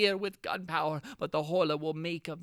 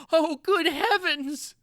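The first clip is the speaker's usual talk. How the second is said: slow, loud and higher exclamation; horrified cry; 8 semitones higher, 8 dB louder, much slower than usual. Acted. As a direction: let the dread stretch out slowly. Narrator's horror at realization.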